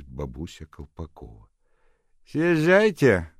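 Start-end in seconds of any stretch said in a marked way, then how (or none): 2.3-3.3 gloomy question. A narrator's reading. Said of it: "осведомилась она довольно мрачно".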